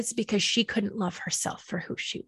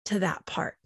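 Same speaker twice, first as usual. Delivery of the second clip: much softer trailing phrase; hushed ending; 3 semitones lower, 6 dB quieter than usual. Real, not acted. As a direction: let it fall away softly. Repeated soft closing phrase.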